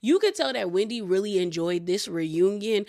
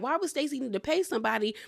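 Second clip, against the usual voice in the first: defending Stacy; 3 semitones higher, 3 dB quieter than usual. Retold or imitated. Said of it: "Jacqueline was trying to take up for Stacy".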